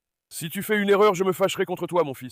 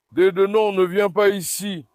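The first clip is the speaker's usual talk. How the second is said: louder warning to the goat, slowing on the end; calling a goat off; 3 semitones higher, 6 dB louder than usual. Real, not acted. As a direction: shoo the goat away firmly. Warding off a goat. (crie au bouc de ne pas venir)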